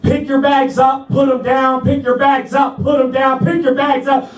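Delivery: mock yelled orders, rattled off; imitated yelling. Sergeants ordering recruits to lift and drop bags, imitated yelling. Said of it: "they're yelling like".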